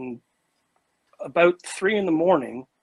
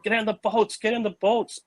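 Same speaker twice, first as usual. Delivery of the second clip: urgent shout; 6 semitones higher than usual. Retold or imitated. Urging friends into boats.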